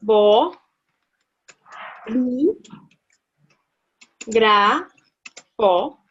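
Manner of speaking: bo, li, gra, fo, each set apart by pauses; split into syllables. Shown as a demonstration. Teacher breaking bolígrafo into syllables for a student. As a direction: tap out bolígrafo one beat per syllable. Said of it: "bolígrafo".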